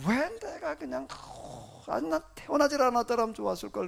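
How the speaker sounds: acted lament with a breathy sigh midway. Preacher voicing Jeremiah regretting his birth, sighing lament. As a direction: draw it out, sigh, then wish it undone. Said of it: "이렇게 탄식해".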